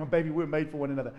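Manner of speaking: lightly crooned, quick and playful; a hint of a sweet talker to his wife; mock romantic. Husband sweet-talking his wife in the morning, playful crooning. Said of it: "you just tell your wife".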